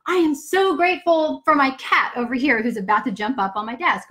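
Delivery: gushing list of thanks, building; gratitude rant. Shown as a demonstration. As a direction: rattle off what you're grateful for with growing glee. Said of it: "going into, like, this rant".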